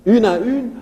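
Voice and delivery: final "une" stressed, high and loud; high tonic accent ending "Une à une". Shown as a demonstration. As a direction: lift and push the "u" of the last "une". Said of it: "U, tu mets un accent".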